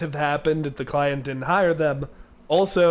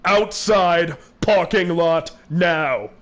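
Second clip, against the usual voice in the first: slow, slightly louder judge order; mock judge order; 4 dB louder, slower than usual. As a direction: bark it out slowly like a fed-up judge. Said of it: "the judge said".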